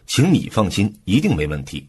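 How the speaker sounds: 你 stressed as the key word in the reassurance. Shown as a demonstration. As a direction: lean on "你" to put the listener first. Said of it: "重音放在 “您” 上，表明对方才是重点". (重音放在“你”上，突出对方)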